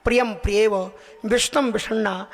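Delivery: measured, metrical Sanskrit verse recitation; shloka recitation. Retold or imitated. Preacher recites Vritrasura's prayer on the battlefield, chanted verse. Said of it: "वृत्तासुर ने बड़े सुंदर चार श्लोक बोले हैं".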